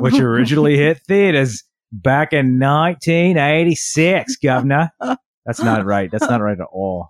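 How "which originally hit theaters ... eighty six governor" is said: put-on slipping into a light Cockney accent; lightly Cockney, like a London cabbie. Host drifts into Cockney while introducing the film, light Cockney. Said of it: "You just switched to Cockney".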